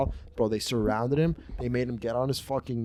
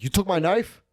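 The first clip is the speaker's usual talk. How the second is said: mock accusation; 7 semitones higher, 4 dB louder than usual. Acted accusation from scary kid.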